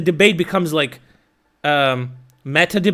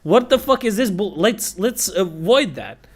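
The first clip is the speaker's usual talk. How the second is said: much higher and louder, strained exasperation; exasperated; 8 semitones higher, 4 dB louder than usual. Retold or imitated. Begging her to stick to the discussion, strained exasperated plea. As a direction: plead with her to drop it, fed up.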